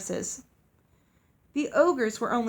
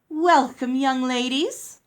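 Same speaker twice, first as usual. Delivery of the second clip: loud, high, slow gushing welcome; showy welcome from the headmistress; grand headmistress; 3 semitones higher, 7 dB louder, slower than usual. A narrator's reading. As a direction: sweep them in with fake charm.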